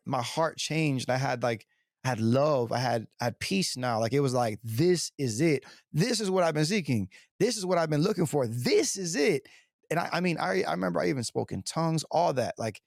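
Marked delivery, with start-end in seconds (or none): 4.6-9.5 emphatic realization, rising in pitch; retold revelation. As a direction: build the conviction, stretching the first and last phrase. Acts out moment of realization.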